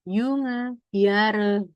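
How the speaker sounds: "Junge", "Jahre" said yung-a, yah-re. Shown as a demonstration. Teacher repeating the examples, J said as Y. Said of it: "dia dibacanya jadi kayak Y".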